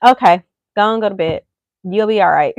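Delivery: dismissive parent. Pretend. Mock parent sending kid off.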